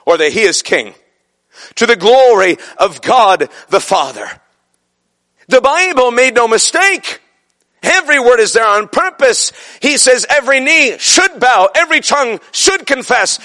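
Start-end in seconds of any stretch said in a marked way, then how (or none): 5.5-13.4 raised pitch, driving each phrase home; emphatic preaching. Real, not acted. Preacher pressing scripture on congregation, emphatic. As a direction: preach it with insistence.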